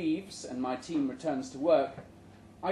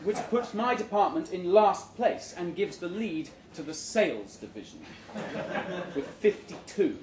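laughing; 2 semitones higher, 3 dB louder than usual. Real, not acted. Reader still laughing.

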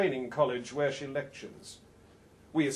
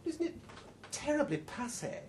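mock disdain; 8 semitones higher, 6 dB quieter than usual. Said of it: "says Yvonne".

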